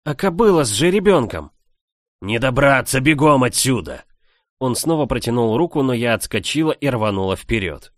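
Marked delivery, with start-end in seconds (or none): 0.0-1.5 much higher, louder shouted question; shouting over the fire. Acted. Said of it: "перекрикивая треск дерева". 2.2-4.0 louder commanding shout; urgent shout. Acted. Man orders her out.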